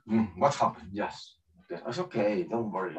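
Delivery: low, very soft murmur; deflated. Retold or imitated. Presenter alone once everything shuts down, deflated. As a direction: drop to a subdued, private voice. Off camera, after work shuts down.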